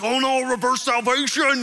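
loud, high, slow mock dismay; exaggerated cry of disappointment; dismayed churchgoers. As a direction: wail it in hammed-up alarm. Acting out dismayed onlookers.

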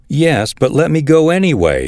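high-pitched, insistent begging. A narrator's reading. Ahimaaz presses a reluctant Joab, begging. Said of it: "he begged".

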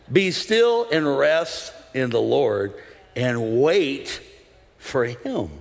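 slow, low, measured verse reading; scripture reading. Acted. Preacher reads the psalm to the church, slow scripture reading. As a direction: read the verse out slowly, pausing between phrases.

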